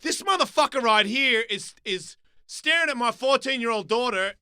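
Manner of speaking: retold outrage, hammering the words; angry accusation. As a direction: call someone out loudly.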